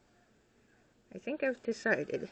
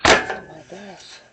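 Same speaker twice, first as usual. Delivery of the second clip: loud, slow exasperated outburst; loud exclamation; 15 dB louder, slower than usual. Real, not acted. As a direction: let it burst out, loud and slow. Outburst at the pets.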